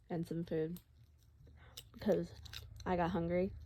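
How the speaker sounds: words through a mouthful of snacks; munching popcorn. Real, not acted. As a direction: chew while you explain. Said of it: "sorry, I'm eating popcorn".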